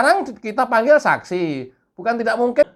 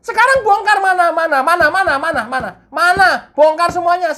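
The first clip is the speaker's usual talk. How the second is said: demanding; 7 semitones higher, 4 dB louder, faster than usual. Pretend. Interrogator demands evidence.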